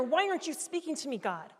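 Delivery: exasperated demand, high then dropping on the last word; retold frustration, pleading loudly with God; angry plea. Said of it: "I got angrier and angrier".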